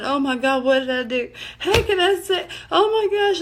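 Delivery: imitating herself flipping out, pitch climbing; retold panic. Woman retelling her horror after blurting out love, mock panicked. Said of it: "I'm just flipping out".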